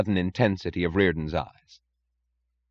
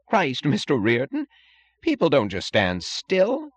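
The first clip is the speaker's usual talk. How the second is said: higher, louder exclamation; crying out; 8 semitones higher, 4 dB louder than usual. A narrator's reading. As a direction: cry it out, exasperated. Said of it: "cried Holloway".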